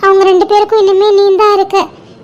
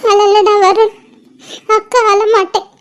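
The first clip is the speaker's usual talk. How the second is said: laughing through tears; slower than usual. Acted. Sister laughs through tears to brother.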